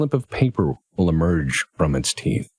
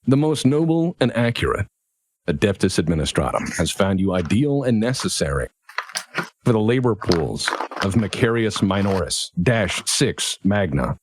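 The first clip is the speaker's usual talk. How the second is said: reading official notice. Acted. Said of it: "It says".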